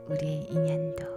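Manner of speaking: ordinary delivery, nothing marked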